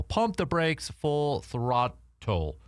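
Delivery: slow, drawn-out announcer call; segment title announcement. Acted. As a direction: stretch the show title like a host.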